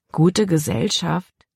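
slow doubtful echo of the words; mild disbelief. A narrator's reading. Girl echoes her father's words, slow and doubtful. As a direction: repeat it slowly, unconvinced. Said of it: "Libby missfiel allein der Gedanke".

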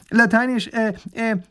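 high, hesitant scholar voice; supply the Latin term, hemming; fussy academic aside; professor adding Latin. A narrator's reading. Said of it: "ergänzt der Professor".

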